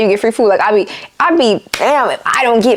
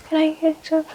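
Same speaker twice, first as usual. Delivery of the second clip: much softer, fading whispered order; imitated whisper; 5 semitones higher, 8 dB quieter than usual. Drive-thru customer whispering an order, mock. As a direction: drop to a near-silent whisper. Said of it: "they whispering".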